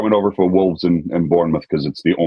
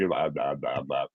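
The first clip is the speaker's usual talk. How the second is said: voiceless babble; 2 semitones lower, 9 dB quieter, slower than usual. Retold or imitated. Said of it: "I had no voice".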